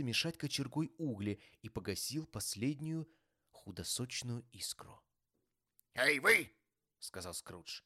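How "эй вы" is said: loud, high angry call; sharp rebuke. A narrator's reading. Scrooge calling out his applauding clerk, angry. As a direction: bark at an underling.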